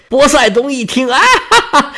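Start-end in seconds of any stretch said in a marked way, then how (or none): 1.1-1.9 a nervous high ha-ha to cover up; awkward laugh. Acted. Poseidon laughs awkwardly to take back his threat. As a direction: laugh it off sheepishly.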